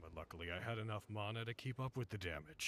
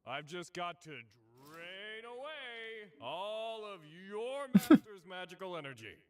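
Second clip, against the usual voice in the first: odd, theatrical speech; 4 semitones higher, 3 dB louder than usual. Acted. Archer explaining his plan to Lancer, odd theatrical speech. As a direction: lay out the plan with stretched, showy emphasis. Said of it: "Why are you speaking like that?".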